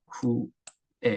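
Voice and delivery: 쿠에 said slowly in one flat tone; flat Korean-accented vowel. Shown as a demonstration. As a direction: drag out 쿠에 level, no glide. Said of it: "이렇게 되겠죠". (쿠에를 평평하게 천천히)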